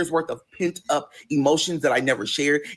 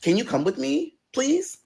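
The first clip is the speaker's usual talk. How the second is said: pleading ask; 10 semitones higher than usual. Retold or imitated. Asking him along on trip.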